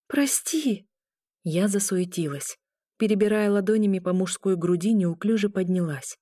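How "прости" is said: hushed, breathless whisper; whispered apology. A narrator's reading. Girl whispering sorry after hurting the wounded man.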